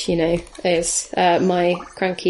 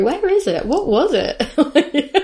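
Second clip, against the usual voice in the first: frantic searching; 8 semitones higher, slower than usual. Retold or imitated. Searching for her lost wand.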